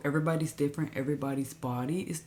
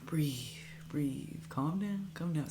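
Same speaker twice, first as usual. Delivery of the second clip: hushed, retold self-soothing; calming self-talk; 6 dB quieter, slower than usual. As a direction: softly coach yourself to breathe. Retold calming herself through panic.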